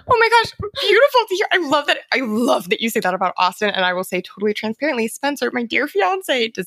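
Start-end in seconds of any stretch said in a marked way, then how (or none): 0.1-2.0 high, louder laughing delight; gushing through a laugh. Real, not acted. Guest gushes over host's partner story, laughing.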